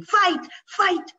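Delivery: high, loud chanting yell; screaming. A narrator's reading. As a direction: chant it like a crowd. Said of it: "began screaming".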